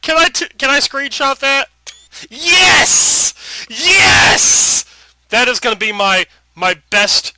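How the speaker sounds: loud, high gleeful yells; real giddy shouting; excited shouting. Real, not acted. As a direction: whoop with delight. Excited over funny screenshot.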